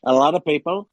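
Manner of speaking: lightly voiced boastful president impression; Donald Trump. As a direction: play a rambling, self-congratulating president. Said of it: "just doing the forty-fifth President of the United States, Donald Trump".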